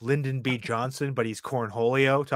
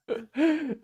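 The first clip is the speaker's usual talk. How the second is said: Cornholio voice; 13 semitones higher, 5 dB quieter than usual. Retold or imitated.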